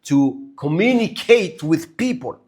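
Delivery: slow, deliberate delivery; measured, spelled-out phrasing; careful enunciation. Real, not acted. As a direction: enunciate each word carefully. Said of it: "I have to enunciate".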